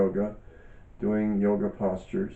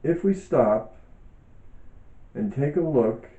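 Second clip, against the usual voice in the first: calm, measured reading aloud with pauses; book reading. Acted. Author reading her yoga book to listeners, calm and measured. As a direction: read each phrase thoughtfully, like a teacher sharing a text.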